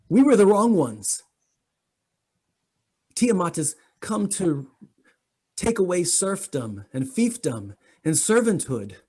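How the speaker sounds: high, rising zealous insistence; fervent pleading. Acted. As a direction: plead as a true believer. Bramble insisting, rising pitch.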